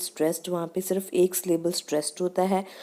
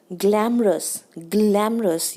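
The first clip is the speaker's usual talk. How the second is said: ग्लैमरस with weight on the front, falling at the end; stress at front; slower than usual. Shown as a demonstration. Teacher showing where stress goes, front-stressed ग्लैमरस. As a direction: lean on the start of ग्लैमरस. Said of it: "ये stress हो गया".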